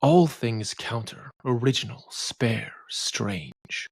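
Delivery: slow, measured line reading fading to a whisper; poetry reading. Shown as a demonstration. Lecturer reads a line of Hopkins aloud, slow and hushed. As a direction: read each word as its own beat. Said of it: "Take the line".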